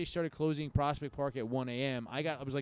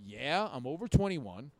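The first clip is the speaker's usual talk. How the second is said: put-on halting drunken self-justification; retold drunk self; 2 semitones higher than usual. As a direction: play drunk, stalling on uhs before the big claim. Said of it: "You're, like, drunk outside".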